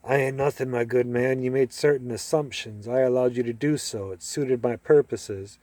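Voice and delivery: put-on lightly done posh British stage accent; a hint of Gielgud-style British, looking down the nose; understated mock British aristocrat accent; John Gielgud accent. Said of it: "I did my John Gielgud accent".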